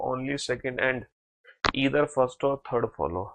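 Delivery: very slow, word by word, reading out an answer; slow dictation. Shown as a demonstration. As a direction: spell out the answer slowly for students. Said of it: "बहुत बढ़िया।".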